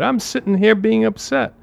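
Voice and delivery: mock reply. Parodying a complacent listener.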